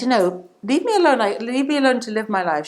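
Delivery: acted-out mild irritation; mildly annoyed. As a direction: play a drinker getting a bit fed up. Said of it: "he starts to get annoyed with this nun".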